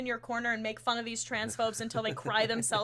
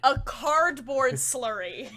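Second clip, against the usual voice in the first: laughing; 5 dB louder, slower than usual. Real, not acted. Repeating the joke with a laugh.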